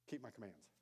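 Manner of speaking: solemn quote. Retold or imitated. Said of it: "Jesus said it like this".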